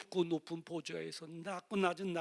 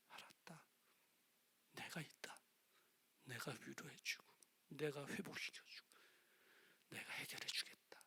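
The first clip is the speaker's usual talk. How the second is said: whispered, tender voice of God; God's gentle answer; 12 dB quieter than usual. Acted. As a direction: answer softly as God comforting. (속삭이는 하나님의 위로 음성)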